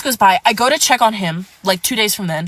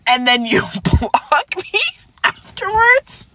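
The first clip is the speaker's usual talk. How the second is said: incredulous; 7 semitones higher, slower than usual. Real, not acted. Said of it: "incredulous at his behavior".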